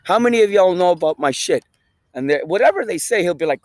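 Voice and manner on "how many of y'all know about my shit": imitating a hype speaker's opener, a bit louder; rally the crowd like a motivational guru; Gary Vee intro. Mimicking Gary Vee opening a talk to an auditorium, a bit louder. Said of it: "he has the same fucking intro every time".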